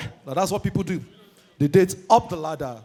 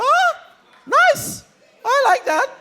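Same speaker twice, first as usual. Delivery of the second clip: mock smooth admirer; 4 dB louder, slower than usual. His own retold reply.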